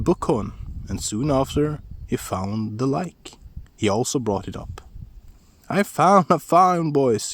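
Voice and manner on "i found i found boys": high, loud gleeful calls; excited shout. A narrator's reading. Askeladd shouting to his brothers, high loud call. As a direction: shout the find to the boys. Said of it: "he shouted".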